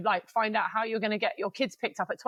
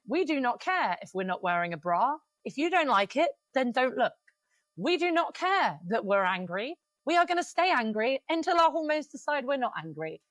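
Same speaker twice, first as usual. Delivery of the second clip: defiant declaration; 4 semitones higher than usual. Retold or imitated. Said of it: "her posts are really funny. They're like".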